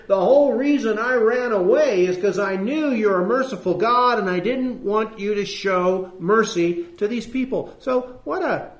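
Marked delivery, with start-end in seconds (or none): 0.1-7.7 raised, heated complaint to God; indignant Jonah. Retold or imitated. Jonah complaining loudly to God, indignant. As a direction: rail at God for being merciful.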